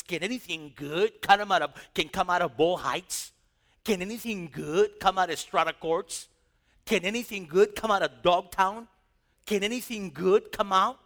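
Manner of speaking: loud scornful jeer; mocking. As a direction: sneer at the town's name. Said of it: "he mocks".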